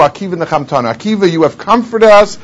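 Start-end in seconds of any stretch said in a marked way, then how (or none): 0.0-0.9 soft echo. Shown as a demonstration. Rabbis comforted by Akiva, a softer echo. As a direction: repeat it softer, as a hushed echo.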